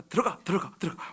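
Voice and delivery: teary self-talk. Retold or imitated. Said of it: "스스로 이거 말한대".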